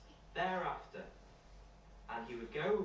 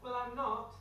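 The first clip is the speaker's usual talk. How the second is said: put-on a much higher, childlike voice, puzzled; little boy Tom; 10 semitones higher than usual. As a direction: pitch up high to play the small boy. Tom denies stealing honey.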